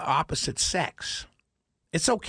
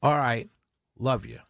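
casual farewell; 6 semitones lower than usual. Shown as a demonstration. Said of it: "I should be able to say".

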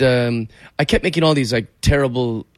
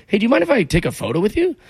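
much higher, polite nervous ask; timid request; 9 semitones higher than usual. Retold or imitated. Fan asking a singer for a photo, higher and timid. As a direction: ask sweetly and a bit nervous.

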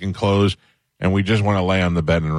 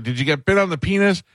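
loud dad quote; 10 semitones higher than usual. Retold or imitated. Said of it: "This is happening at great volume".

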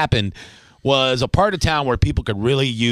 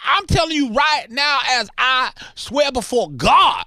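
excited neighbor yell; 10 semitones higher than usual. Acted. Host yells to his neighbor Ryan about the bacon smell. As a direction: call out to Ryan, thrilled by the smell.

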